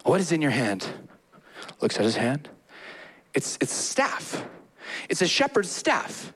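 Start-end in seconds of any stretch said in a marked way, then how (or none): 3.3-4.4 whispered. Acted. Voicing Moses' reply.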